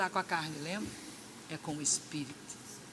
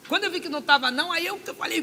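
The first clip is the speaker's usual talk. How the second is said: ordinary delivery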